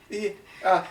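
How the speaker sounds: high, laughing, then calling a name loud; nervous laugh, then shout for help; big man calling out. Acted. The large man nervously calls his partner, high and loud. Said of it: "And he goes".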